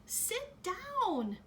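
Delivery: high, loud urgent yell. A narrator's reading. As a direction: shout at a kid to sit down.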